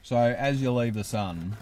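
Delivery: talking while munching popcorn; words round a mouthful of popcorn. Real, not acted. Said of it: "this popcorn is so good".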